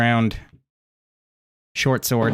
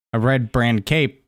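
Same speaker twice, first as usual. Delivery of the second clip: ordinary delivery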